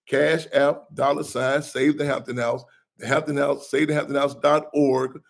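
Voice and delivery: spelled out slowly, phrase by phrase; slow dictation. Real, not acted. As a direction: say it slow so listeners can note it down. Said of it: "I'm gonna say it slow".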